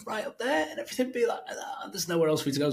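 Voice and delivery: squeezed up at the top of the pitch; too high. Retold or imitated. Cold caller running out of runway at the pitch's end, very high. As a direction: climb until there's nowhere left to go. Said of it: "habit of starting off very high".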